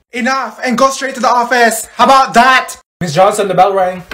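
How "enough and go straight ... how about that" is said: high, loud scolding; fed-up teacher. Acted. Teacher sending pupils to the office, fed up. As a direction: lay down the law, raised voice.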